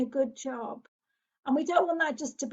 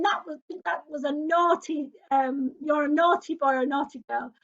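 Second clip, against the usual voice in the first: labelling scold; 6 dB louder than usual. Shown as a demonstration. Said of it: "So instead of saying".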